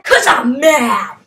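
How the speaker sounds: slow, strained angry shout; mock mad. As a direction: wail it out in hammed-up anger.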